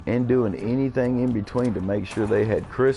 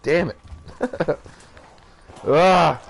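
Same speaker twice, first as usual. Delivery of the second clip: high "damn it", then a loud cry of "ah"; pained outburst; 8 semitones higher, 3 dB louder than usual. Real, not acted. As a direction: let the hurt burst out, high-pitched. Father breaking down over absent children.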